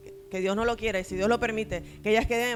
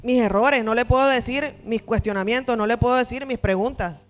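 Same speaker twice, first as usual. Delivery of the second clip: put-on anguished child; 4 dB louder than usual. Child afraid to confess to father.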